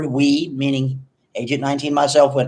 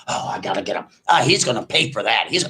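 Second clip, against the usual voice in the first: vengeful buddy; 4 semitones lower, faster than usual. Retold or imitated. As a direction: grumble a threat under your breath. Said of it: "buddy quoted, low grumble".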